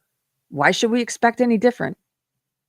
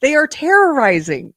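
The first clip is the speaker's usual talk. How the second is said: much higher-pitched exasperated retort; indignant disbelief; 8 semitones higher, 5 dB louder than usual. Real, not acted. Host rebutting the claim about frightening people, exasperated and indignant. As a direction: fire back incredulously, voice jumping up high.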